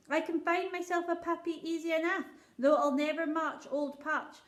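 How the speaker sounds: a poor shepherd pleading before his king; rustic old shepherd. Acted.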